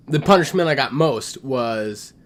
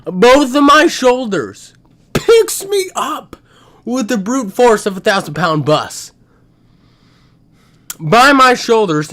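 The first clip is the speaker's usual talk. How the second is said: dramatic excited retelling; 7 semitones higher, 6 dB louder than usual. Real, not acted. Dramatic retelling of being lifted.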